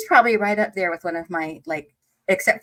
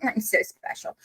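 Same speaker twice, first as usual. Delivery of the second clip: mock smug; 3 semitones higher, 4 dB quieter than usual. Mocking herself after compliments.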